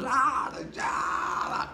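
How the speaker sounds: mock high wail, drawn out; imitated screaming and hollering. Grandmother grieving her brother at the funeral, imitated high wailing. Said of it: "grandmother was screaming and hollering".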